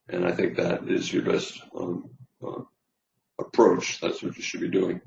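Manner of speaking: hoarse, tired voice; losing voice. Real, not acted. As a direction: voice going hoarse. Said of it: "I'm losing my voice".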